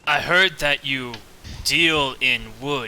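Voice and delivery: slow, suggestive sly come-on. Acted. Gra offers himself to the lady, slyly suggestive. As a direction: draw it out slyly, with pauses. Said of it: "he tries his best slyly".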